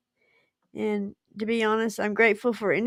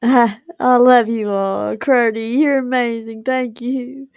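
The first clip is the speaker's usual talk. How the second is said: gushing; 8 dB louder than usual. Real, not acted. Gushing thanks to viewers.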